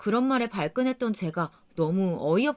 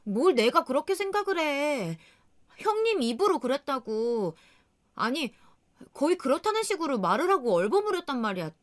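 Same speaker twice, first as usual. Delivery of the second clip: mild retold temper; 6 semitones higher than usual. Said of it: "화가 나서 막 성질을 내게".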